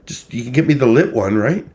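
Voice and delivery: high mocking imitation of the caller; sarcastic high mimicry of the caller; mimicking her. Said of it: "She's like".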